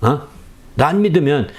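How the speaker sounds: normal talking voice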